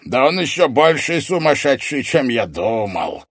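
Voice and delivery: loud start, slowing and falling; villain's derisive amazement; scornful surprise. A narrator's reading. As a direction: marvel at the madman's nerve. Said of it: "удивился незнакомец".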